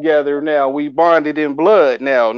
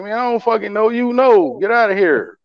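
higher, scornful get-lost; dismissive brush-off; 5 semitones higher than usual. Retold or imitated. Instagram strangers wanting friendship, higher scornful brush-off. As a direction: wave off the would-be friend.

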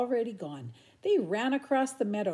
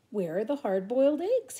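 mild worried cry; cried out; 4 semitones higher, 4 dB louder than usual. Acted. Harriet missing her eggs, crying out mildly. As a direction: call out a little alarmed. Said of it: "Harriet cried".

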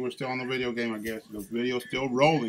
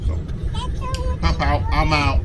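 squeaky sign-off; 7 semitones higher, 10 dB louder, much slower than usual. Pretend. Dad squealing the kids' sign-off for the viewers. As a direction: squeal it, way up high and loud.

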